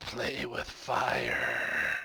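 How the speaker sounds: faint, airy, wispy, very quiet whispered breath. A game master voices a robed creature before it tosses something at a character, wispy whisper. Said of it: "Whispering in a wispy voice".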